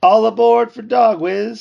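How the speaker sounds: high, loud, drawn-out boarding call; disembodied announcer voice. A narrator's reading. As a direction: call it out slowly like an unseen conductor. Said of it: "said a disembodied voice".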